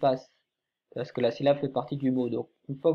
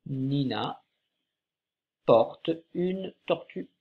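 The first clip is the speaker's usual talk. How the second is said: Nina porte une tortue read more smoothly, slightly slow; teacher rereading the sentence more fluently; read a bit faster; slower than usual. Shown as a demonstration. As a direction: read the sentence as one phrase. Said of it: "cette phrase commence par Nina".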